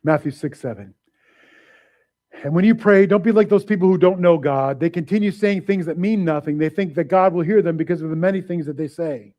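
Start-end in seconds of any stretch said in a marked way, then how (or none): 2.4-9.3 raised, measured reading; scripture reading. Acted. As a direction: read the verse out to the church.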